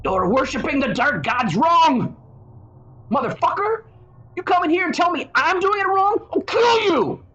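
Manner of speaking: high-pitched edgelord screaming fit; mock scream. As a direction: scream it like an outraged online edgelord. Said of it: "like to scream at everyone".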